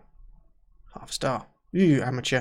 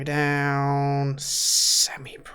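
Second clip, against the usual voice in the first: deflated; much slower than usual. Real, not acted. Pleading, then let down by result.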